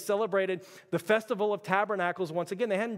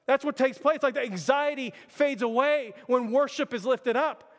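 fervent preaching; 3 semitones higher than usual. Acted. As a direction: preach it out to the church with rising fire. Preacher builds to full force.

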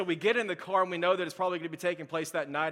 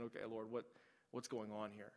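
softly retold plea to God, much quieter; hushed prayer; 6 semitones lower, 14 dB quieter than usual. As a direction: murmur it like a worried prayer in a hospital. Retold anxious prayer in waiting room.

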